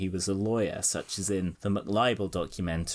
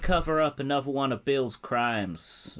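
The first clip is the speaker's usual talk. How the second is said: put-on half-hearted non-Southern American accent, slightly higher; Hillary Clinton's normal accent; 5 semitones higher than usual. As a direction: have a weak go at a generic American accent. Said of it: "I can't do a normal Hillary Clinton accent".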